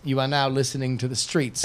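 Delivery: rapper tag in bad British accent. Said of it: "a really bad British accent?".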